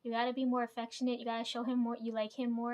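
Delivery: loud mock nagging, fast at the start; imitating a friend's nonstop scolding; retold yelling. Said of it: "she's yelling at me nonstop".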